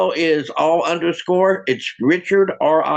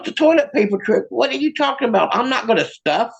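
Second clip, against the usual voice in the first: higher-pitched, indignant questioning; baffled wife; 5 semitones higher than usual. Acted. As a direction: question it in mock disbelief. Acted wife baffled by husband's suggestion.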